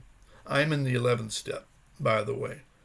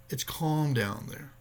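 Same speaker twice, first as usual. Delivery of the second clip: slow calm repeat; slower than usual. Retold or imitated. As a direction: say it again gently to calm. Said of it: "He said".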